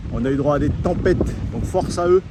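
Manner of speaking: shouting over wind. Real, not acted. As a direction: push the voice over gusts. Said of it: "Là, avec le vent".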